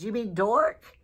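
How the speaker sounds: high, incredulous "You mean dork?"; retold sudden realization to husband; surprised question. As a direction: pitch the question up in amazement. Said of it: "I said".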